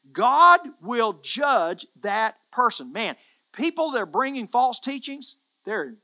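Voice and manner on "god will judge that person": slow loud declaration. Acted. Preacher declares judgment.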